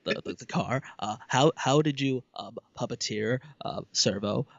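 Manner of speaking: stammering fan question, lots of ums; halting, over-careful nitpicky asker; nitpicker voice. Shown as a demonstration. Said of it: "that's my new nitpicker voice".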